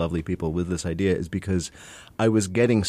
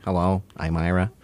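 Ira Glass. Retold or imitated. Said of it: "That was actually my Ira Glass impression".

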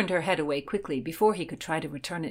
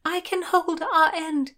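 high, raised-voice call; 11 semitones higher, 4 dB louder than usual. A narrator's reading. Heroine offers to help the boatman with the rope, calling out. Calling out during a sea rescue.

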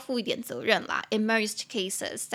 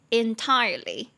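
"entirely" with stress on TIRE; stress on second syllable; 4 dB louder, slower than usual. Shown as a demonstration. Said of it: "重音节在第二音节".

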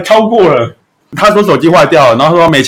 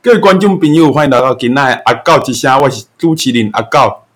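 village chief announcer; 3 semitones lower than usual. Shown as a demonstration. Host redoing the intro as a village chief would. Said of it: "里长讲话没有那么快的啦".

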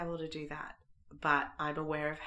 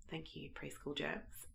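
croaky voice; 8 dB quieter than usual. Real, not acted. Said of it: "I am sounding croaky".

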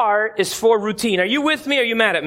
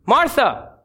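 short, restrained call of her name; first warning call; 3 semitones higher than usual. Acted. Jesus first tries to get Martha's attention, restrained call. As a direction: call her name, holding back exasperation. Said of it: "I can imagine Jesus saying it".

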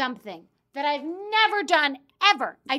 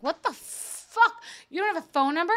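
mock shocked staff; 5 semitones higher than usual. Staff gathered around her, mock shocked. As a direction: stretch the disbelief out.

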